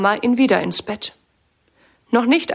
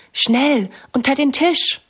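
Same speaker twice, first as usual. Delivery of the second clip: urgent hushed hiss, pitched higher; excited whisper; 4 semitones higher than usual. A narrator's reading. Minna urges Sammy to hide, excited hushed whisper. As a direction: hurry him under the table. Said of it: "flüstert Minna aufgeregt".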